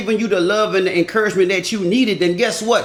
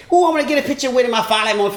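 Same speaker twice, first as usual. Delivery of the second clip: eager fan; 3 semitones higher, much faster than usual. Retold or imitated. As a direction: rush it like an excited fan begging for a photo. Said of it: "Let me get a picture with you".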